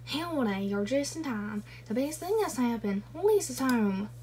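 mock Southern cowboy greeting, only lightly put on; horrible southern accent. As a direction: read it in a hammed-up Southern accent. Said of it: "That was a horrible southern accent".

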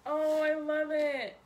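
high, loud laughing squeal; excited squealing. Real, not acted. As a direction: shriek with delight. Unboxing the hoodie, squealing.

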